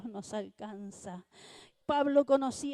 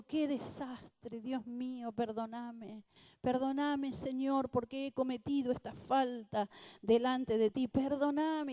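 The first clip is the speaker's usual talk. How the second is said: remorseful prayer. Retold or imitated. Repentant man prays in hotel.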